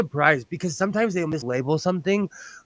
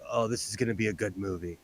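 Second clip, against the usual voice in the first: retold aside; 5 semitones lower, 9 dB quieter, faster than usual. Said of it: "and I'm like".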